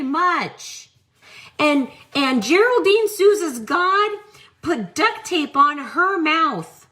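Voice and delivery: a hint of a sugary preacher, slowed on loves you; mock third-person self-talk. Host parodies a preacher speaking of herself in third person, mock sweetness. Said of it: "Talking to myself is the third fucking person".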